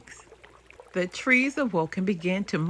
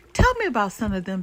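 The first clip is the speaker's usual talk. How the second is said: eager begging; 4 semitones higher, faster than usual. Acted. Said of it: "begged the brook".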